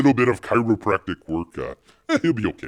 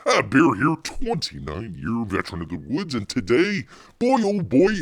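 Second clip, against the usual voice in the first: bear persona intro; 4 semitones higher than usual. Pretend.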